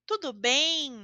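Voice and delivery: "bem?" ending in a nasal em, lips open. Shown as a demonstration. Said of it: "eu falo em".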